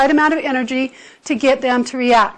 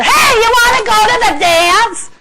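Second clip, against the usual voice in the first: loud, high-pitched blaring shout; 9 semitones higher, 7 dB louder than usual. Acted. Guy asking a girl to the dance, shouting at her. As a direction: holler it at someone across the room. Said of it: "go up and shout at her".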